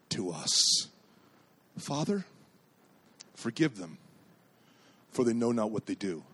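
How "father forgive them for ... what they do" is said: soft, low, halting plea; quiet prayer. Acted. Jesus on the cross to the Father, quiet prayer. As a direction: pray it softly with long pauses.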